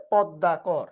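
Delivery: পদ্মাকর starting "pawd", open অ kept. Shown as a demonstration. Teacher showing the rule for ম ফলা, careful open-অ demonstration of পদ্মাকর. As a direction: say পদ্মাকর slowly with an open first অ. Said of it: "অর মতো উচ্চারণ হবে".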